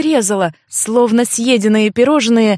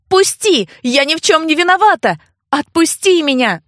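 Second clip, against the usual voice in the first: much higher, louder desperate shout; angry yell; 6 semitones higher, 3 dB louder than usual. Acted. Sister pinned to the floor shouts at brother, desperate. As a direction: shout to be released.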